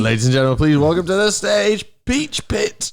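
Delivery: grand stage announcer. Pretend. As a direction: announce the act to a crowd. Announcing a band.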